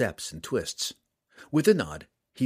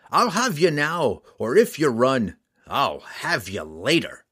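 loud, slow gruff threat; menacing threat; 3 semitones higher, 5 dB louder than usual. Acted. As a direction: growl the promise of a hunt. Bounty hunter threatening the drow.

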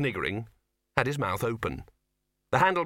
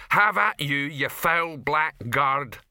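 hammed-up hero; 4 semitones higher, 5 dB louder, much slower than usual. Troll retells heroic movie line.

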